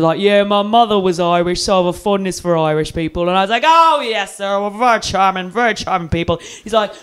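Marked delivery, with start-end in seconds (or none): 0.2-3.3 lightly voiced London cab driver; a hint of chummy London cabbie; London cabbie accent. London driver claiming Irish roots, mock London accent. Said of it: "London taxi drivers love Irish people". 3.7-6.4 over-polite agreement. Retold or imitated. Drunk passenger agreeing with the driver, over-politely.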